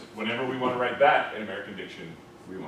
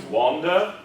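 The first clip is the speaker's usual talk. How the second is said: British RP wanda, slow; 6 semitones higher, 6 dB louder than usual. Shown as a demonstration. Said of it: "rather than wander".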